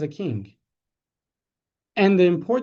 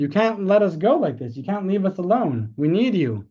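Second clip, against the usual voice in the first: imitating a desperate woman, louder and higher; mock-plead, voice raised; retold loud plea; 4 semitones higher, 4 dB louder than usual. Older woman begging the Rebbe not to leave, raised pleading voice.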